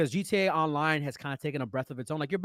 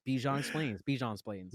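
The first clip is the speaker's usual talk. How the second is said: segment title jingle; 4 dB quieter than usual. Acted. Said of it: "take it from the top".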